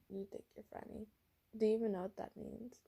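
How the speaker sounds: very soft sick voice; weak teasing from a sick boy. Acted. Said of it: "I put my sick voice on".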